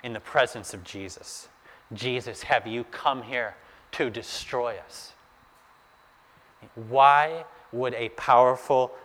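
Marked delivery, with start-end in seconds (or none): 1.9-5.1 hushed, cowed demon plea; fearful. Acted. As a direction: ask softly, as if in dread. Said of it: "the demon is shaking with fear".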